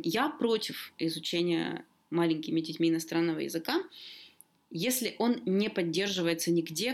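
usual speaking voice

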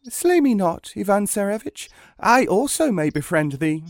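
high-pitched pleading duck; talking duck. Acted. Duck begging the hunter for its life, high and urgent. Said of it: "she greeted him with a human voice".

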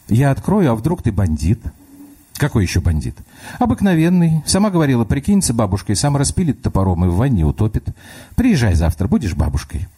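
put-on a small girl reasoning through the door; child voice. Little girl talks to grandma through the locked door, child voice.

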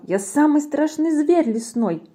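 high, boastful squeak; squeaky mouse. A narrator's reading. Mouse brags to the Gruffalo, bold high squeak. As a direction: pipe up as a bold little mouse. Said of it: "Мышонок пропищал".

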